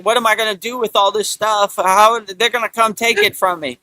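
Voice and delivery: mock panic. Imitating a scared person fearing they'll take his stuff, mock panic. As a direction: whine like a worried hoarder.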